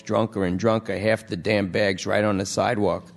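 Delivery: junkie voice. Acted. Junkie Lester pleads.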